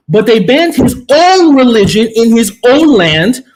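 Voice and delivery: slow, heavy stress on "own"; emphatic accusation. Real, not acted. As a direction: stretch each "own" to hammer the point. Restating premise to opponents.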